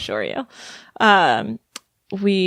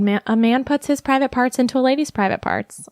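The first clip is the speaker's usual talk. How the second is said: higher-pitched voice of mom; imitating mom explaining; 6 semitones higher than usual. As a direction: quote mom giving a child the facts, in a higher voice. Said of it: "and she said".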